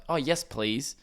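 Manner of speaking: light, polite request with a lift at the end; courteous, rising please. Retold or imitated. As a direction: imitate someone asking nicely. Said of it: "instead of like".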